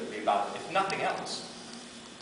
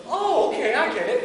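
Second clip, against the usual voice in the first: sudden realization; 12 semitones higher, 8 dB louder than usual. Retold or imitated. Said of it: "And she goes".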